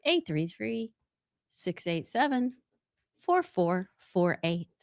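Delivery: soft, unhurried cabin announcement; stewardess voice. Pretend. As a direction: read it like a flight attendant. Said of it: "Could we do it in our best voice?".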